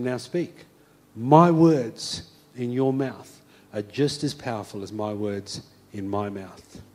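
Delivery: voice of God. Acted. God repeats his promise.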